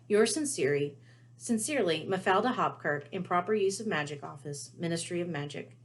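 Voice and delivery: crisp formal Ministry letter voice; official letter reading. Acted. Harry reads the Ministry warning letter, formal and official. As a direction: read it like a stern official notice.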